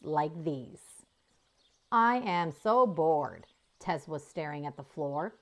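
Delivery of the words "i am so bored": slow, drawn-out bored sigh of a line. Acted. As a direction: drag the words out, utterly bored. Bored calf complains.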